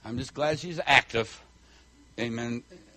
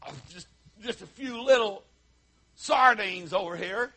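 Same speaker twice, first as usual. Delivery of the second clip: softer, hesitant mock apology; belittling; 4 semitones higher, 4 dB quieter than usual. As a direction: play down the meagre offering. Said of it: "didn't have to say it like that".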